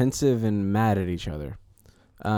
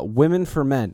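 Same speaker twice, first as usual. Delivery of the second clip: put-on sexy Southern accent; 3 semitones higher, 4 dB louder than usual. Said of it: "Can you give me a sexy Southern?".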